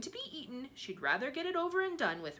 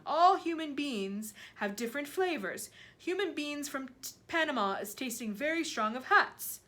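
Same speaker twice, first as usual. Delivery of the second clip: loud, higher giant voice; giant lecturing on flavours; 5 semitones higher, 6 dB louder than usual. A narrator's reading. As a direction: hold forth emphatically as the giant.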